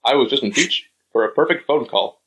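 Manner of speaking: a light, knowingly bad political impression; Donald Trump. Teasing the co-host with a Trump impression, mock presidential. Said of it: "Trump said".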